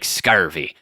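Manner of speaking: low pirate accent on "scurvy"; bad pirate accent. Shown as a demonstration. Demonstrating West Country accent horribly, low pirate "scurvy". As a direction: say "scurvy" like a badly faked pirate, hard R. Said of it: "pirate accent like this. I'm doing it horribly".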